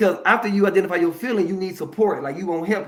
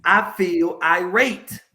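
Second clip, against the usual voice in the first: slow self-talk; slower than usual. Shown as a demonstration. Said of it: "So you can think right now".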